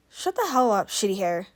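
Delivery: mild irritated snap; a touch of a rough retort; snapped back. Acted. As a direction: shoot it back fast at the teasing friend. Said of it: "snapped back".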